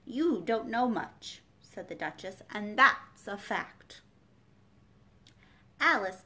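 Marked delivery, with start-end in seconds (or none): 0.0-1.4 slow, contemptuous put-down; the Duchess sneering at Alice; scornful Duchess. A narrator's reading. 2.5-4.0 slow, contemptuous put-down; the Duchess sneering at Alice; scornful Duchess. A narrator's reading.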